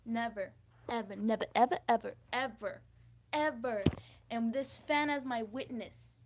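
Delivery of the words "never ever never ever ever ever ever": NEVER, EVER punched in a string; emphatic repetition. Real, not acted. Vlogger restating the big lesson, every EVER firmly stressed. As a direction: hit each NEVER and EVER hard. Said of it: "I gotta emphasize it".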